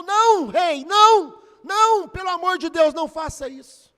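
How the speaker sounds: loud, desperate pleading shout; desperate cry. A narrator's reading. The true mother begs King Solomon to spare her baby, desperate loud shout. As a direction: cry out to save your child.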